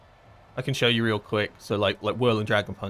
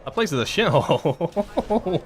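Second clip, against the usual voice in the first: emphatic disgust; 8 semitones higher, 5 dB louder, slower than usual. Real, not acted. Scoffing at old Silvermoon.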